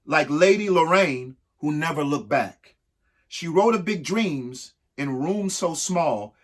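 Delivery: rhythmic, lilting read-aloud of a rhyming book; reading to children. Acted. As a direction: read each verse to the kids with a bounce.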